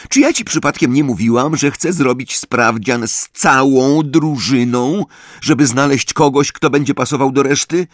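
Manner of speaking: high, loud indignant scolding; angry team captain. Acted.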